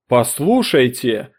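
loud, slow exasperated cry; lost temper. Acted. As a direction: snap at them, out of patience. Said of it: "выйдя из себя". (громко, раздражённо, медленно)

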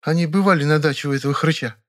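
put-on a young woman sharing news; girlish, chatty Vera; Vera chatting. A narrator's reading. Vera's voice.

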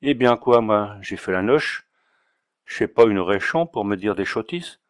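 lightly voiced Auvergnat drunk with a Paris street lilt; a hint of Auvergnat, slurring s into ch; Auvergnat accent. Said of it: "avec son aimable accent, embelli d'une intonation faubourienne".

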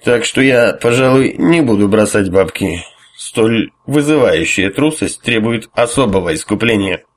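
mock-stern tipsy verdict; comically stern. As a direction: play the pompous judge, slow. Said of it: "с комичной суровостью закончил".

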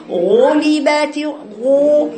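غو stretched slow and heavy in غلبت; wrong overdone ghayn. Shown as a demonstration. Teacher imitating the wrong reading, slow heavy ghayn. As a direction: drag out the wrong غو. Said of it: "خطأ".

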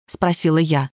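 ordinary delivery

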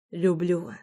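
softly murmured, hushed confession; understated whisper. A narrator's reading. Husband confessing love in his wife's ear, softly murmured. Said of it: "прошептал на ухо".

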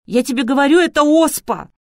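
high, loud panicked insistence; panicked cry. A narrator's reading. Girl insists to Artur it's smallpox, panicked loud cry.

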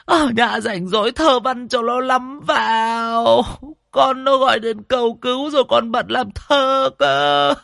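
put-on old grandmother wailing and cursing over the coffin. A narrator's reading. Grandmother curses her daughter at the grandson's coffin, high loud wailing. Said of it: "Bà ngoại lại lôi cô Hến ra mà chửi".

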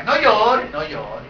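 soft hushing "No llore, no llore"; imitating a comforter. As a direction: hush the mourner gently, fading to a whisper. Mock comforter telling mourner not to cry. (consuelo susurrado)

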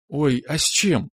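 high, eager little question; lively interest. A narrator's reading. Alya hearing tea is offered, lively interested question. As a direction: ask keenly, lifting the voice. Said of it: "живо заинтересовалась".

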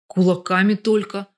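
ordinary delivery

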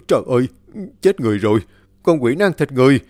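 loud horrified cry, rising to a high yell; crying out in horror. Acted. Villager seeing the corpse eaten, crying out loud in horror. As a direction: scream for the neighbours in terror. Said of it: "không nhịn nổi mà kêu lên".

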